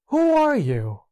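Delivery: high call thrown back from afar; echoing call. Retold or imitated. Echo calls back to the child, high and distant. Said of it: "the voice responded".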